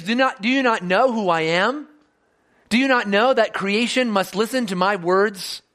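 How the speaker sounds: gentle questioning. Retold or imitated. Jesus asks the frightened disciples, in a gentle sincere voice. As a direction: plead with them gently, not scold. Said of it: "He's saying".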